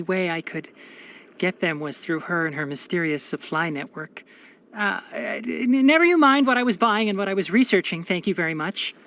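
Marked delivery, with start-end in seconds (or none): 4.7-8.9 flustered deflection. Acted. Caught out, hastily deflecting question.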